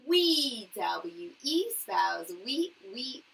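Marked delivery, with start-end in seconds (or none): 0.1-0.7 announced word. Shown as a demonstration. Teacher calling out a sight word to her class. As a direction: call the word out high and loud. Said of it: "What word is this?".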